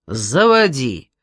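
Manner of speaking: low chesty call from inside; deep chesty voice. Acted. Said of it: "низким грудным голосом".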